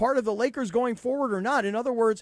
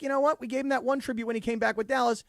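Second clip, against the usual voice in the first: sarcastic; 5 semitones higher than usual. Pretend. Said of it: "because I'm being a sarcastic jerk".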